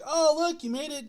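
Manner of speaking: lightly cheering water bottle; voiced water jug message. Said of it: "It's like".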